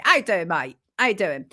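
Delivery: playful light Cockney greeting; Cockney accent. Pretend. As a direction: try on a bit of Cockney.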